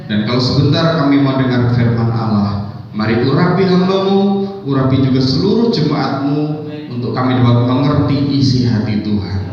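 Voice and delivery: earnest congregational prayer in rising and falling phrases; spoken prayer. Real, not acted. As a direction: lead the church in prayer, settling down on the amen. Leads a prayer before preaching.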